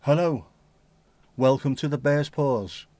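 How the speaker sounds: lightly put-on announcer, slow; mock AI voiceover greeting, slowed. A lightly mocked AI voiceover welcoming viewers. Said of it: "use a Spanish voiceover".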